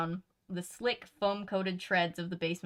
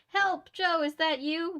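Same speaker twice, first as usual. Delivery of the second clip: put-on higher, louder frightened young woman; muffled Fiona voice; 8 semitones higher, 4 dB louder, slower than usual. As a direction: call out muffled from behind a door. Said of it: "The muffled voice was Fiona's".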